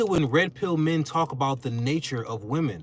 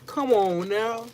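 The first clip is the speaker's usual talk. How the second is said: higher, pleading come on now; raised voice, drawing out the final come on now; incredulous retort; 9 semitones higher than usual. Retold or imitated. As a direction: push back, half laughing at the critics. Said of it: "But I'm like".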